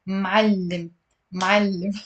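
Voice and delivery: "Ma'allim" carefully, with a held double l; measured two-beat "Ma'allim"; pronounce-along demo. Shown as a demonstration. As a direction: model "Ma'allim" clearly as m'al-lim for repeating. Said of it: "pronounce it with me".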